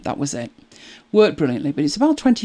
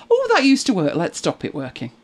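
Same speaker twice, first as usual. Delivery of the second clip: mocking Apple.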